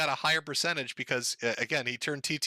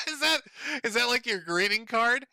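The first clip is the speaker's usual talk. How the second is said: mocking; 9 semitones higher than usual. Real, not acted. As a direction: taunt him, pitched up. Mocking Ralph after the fake quote.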